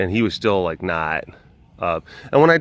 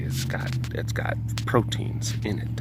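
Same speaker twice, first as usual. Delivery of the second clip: whispered joke; 3 semitones lower, 6 dB quieter than usual. Acted. Joking aside.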